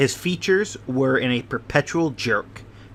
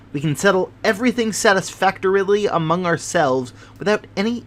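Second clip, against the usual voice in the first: louder and higher, fast and eager; excited, fidgety host; 5 semitones higher, 4 dB louder than usual. Acted. Host promises Miss Morstan justice, loud, high and eager. Sholto's voice held.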